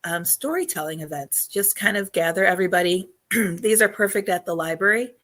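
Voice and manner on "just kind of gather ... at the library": hoarse voice. Real, not acted. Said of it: "I'm losing my voice again".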